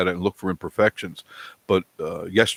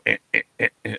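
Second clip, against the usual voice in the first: imitated video glitch; much faster than usual. Host mimics the choppy, locking video, imitated glitch noise. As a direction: stutter like a jammed video. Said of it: "it would jerk and go".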